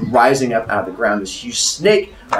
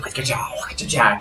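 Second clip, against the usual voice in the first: imitated belly noise; 6 dB quieter than usual. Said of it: "her belly's like".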